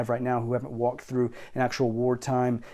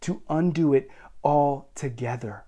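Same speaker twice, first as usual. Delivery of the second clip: higher and louder, fired-up challenge; rousing preaching; 3 semitones higher, 4 dB louder than usual. Real, not acted. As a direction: lift the room with it.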